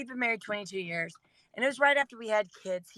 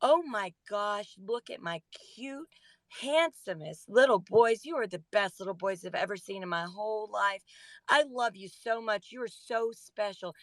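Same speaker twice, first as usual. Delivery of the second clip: sweet mommy voice. Retold or imitated. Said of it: "I said".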